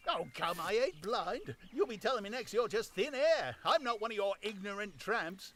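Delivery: high, loud, offended tramp voice; high, loud, huffy tramp; indignant tramp. Acted. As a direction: insist he is no fool. Tramp voice held.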